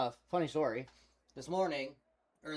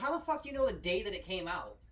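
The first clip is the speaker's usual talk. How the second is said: incredulous; 6 semitones higher, 4 dB louder than usual. Retold or imitated. Retold disbelief at release dates.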